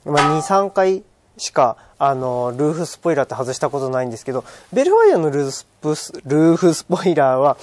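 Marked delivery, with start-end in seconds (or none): 2.6-7.6 words tripping on a cold, stiff mouth. Real, not acted. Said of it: "ちょっと寒くて口が回らないんですけど".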